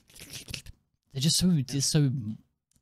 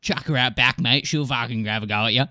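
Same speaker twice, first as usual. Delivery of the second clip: put-on Australian accent; 2 semitones lower, 4 dB louder than usual. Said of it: "Like, sort of thing".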